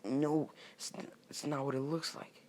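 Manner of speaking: high, stammering denial; flustered protest. Acted. Orochimaru excusing himself to Naruto, flustered. Accused character protests to teammate.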